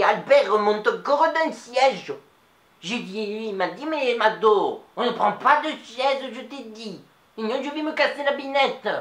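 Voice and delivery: lightly voiced old Nice lady, chatty; a chatty old Niçoise telling a story to the audience; Mado. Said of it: "c'était Mado". (voix légère de vieille Niçoise bavarde)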